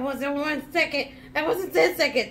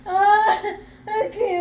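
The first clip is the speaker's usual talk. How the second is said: laughing; 2 semitones higher, 6 dB louder, slower than usual. Real, not acted. Trying to stop laughing fit.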